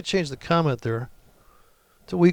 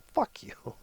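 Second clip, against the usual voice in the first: retold insult; 7 semitones higher, 7 dB quieter than usual. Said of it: "he waits till she gets real close and he goes".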